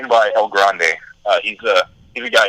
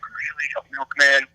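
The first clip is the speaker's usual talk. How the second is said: mild, slow retold letdown, a little higher; disappointed; 4 semitones higher, 4 dB quieter, slower than usual. Wrestler recalls reading his assigned role, mildly disappointed. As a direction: question it slowly with understated disappointment. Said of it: "I was so disappointed".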